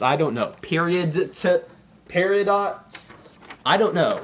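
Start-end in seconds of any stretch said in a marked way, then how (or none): 0.6-3.0 "Period to" slowly, T split off, then "peridot" as a guess; unsure pronunciation attempts. Shown as a demonstration. Asking how to pronounce it, trying "Period to, peridot?" uncertainly. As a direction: sound out "Period to, peridot?" tentatively. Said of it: "tell me how to pronounce this".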